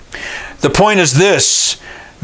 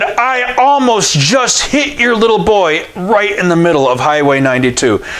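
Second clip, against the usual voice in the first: shaken report; 4 semitones higher than usual. Retold or imitated. Stranger reports near accident.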